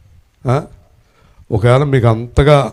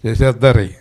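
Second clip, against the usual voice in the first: mock fearful listener; 5 semitones higher than usual. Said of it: "మీరేం చేస్తారు?".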